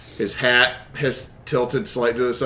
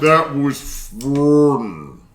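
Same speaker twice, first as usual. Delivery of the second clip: put-on creepy child voice; 4 dB louder, much slower than usual.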